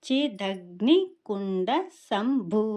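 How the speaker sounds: slow చి దగ్ని కుండ సంభూ, ending on a long aspirated భూ; pronunciation demo. Shown as a demonstration. Teacher assembles the name for learners, slow and deliberate. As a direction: build up సంభూ after the separated first parts. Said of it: "అనేసని పలకాలి".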